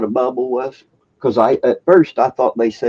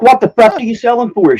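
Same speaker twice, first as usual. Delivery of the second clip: much higher, louder retold demand; exasperated demand; 12 semitones higher, 6 dB louder than usual. Customer pressing the clerk, mock exasperated. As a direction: push the question in mock exasperation.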